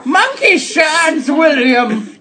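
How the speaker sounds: indignant character voice. Acted.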